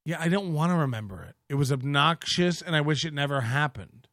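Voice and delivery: mock dismissive. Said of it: "came in with it again and says".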